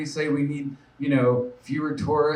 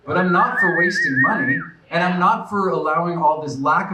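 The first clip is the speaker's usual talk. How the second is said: louder and higher, driving the point home; forceful emphasis; 4 semitones higher, 5 dB louder than usual. Real, not acted. Candidate rallying the crowd against waste, forceful. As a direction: hit it hard for the crowd.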